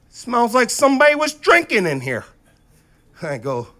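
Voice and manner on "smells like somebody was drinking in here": mock cop accusation.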